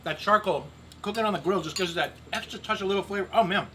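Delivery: talking with mouth full; words round a bite of food. Real, not acted. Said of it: "I'm talking with my mouth full".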